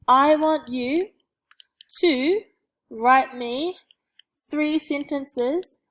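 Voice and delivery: slow loud I want you; dramatic build-up. Shown as a demonstration. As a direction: drag out the challenge, loud. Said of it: "massive challenge".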